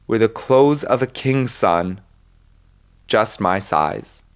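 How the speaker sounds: lightly dramatic poem reading, slowing at the end. Acted. Podcaster reading a poem to listeners, earnest recitation.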